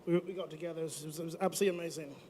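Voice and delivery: put-on a light, hammy British-Australian accent. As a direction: play it like a bloke from Britain. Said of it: "what's up with the accent".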